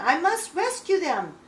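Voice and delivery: loud, high, urgent resolve; urgent alarm. A narrator's reading. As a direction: cry it out as an emergency. Bat resolves to save falling friends.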